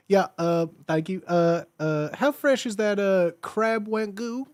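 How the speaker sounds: put-on Southern restaurant ordering voice; hesitant ordering in a playful Southern accent; sweet Southern accent. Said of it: "in your sweet southern accent".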